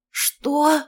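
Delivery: high, hoarse little wheeze; wheezed in shock. A narrator's reading. Mother learns daughter is pregnant, wheezing. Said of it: "просипела я".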